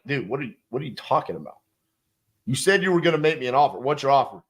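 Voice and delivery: irritated seller, fast and pushy; mock pissed off. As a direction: rattle it off like an annoyed seller. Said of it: "now I'm pissed".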